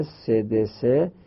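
سه د سه said very slowly, sound by sound; slow split sounds. Shown as a demonstration. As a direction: pull سه د سه apart slowly. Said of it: "یعنی سه د سه". (سه د سه آهسته و جدا)

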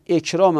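"اکرام" with a final -e; kasra ending. Shown as a demonstration. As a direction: sound out "اکرام" as ekraa-me. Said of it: "عطف به جلال شده".

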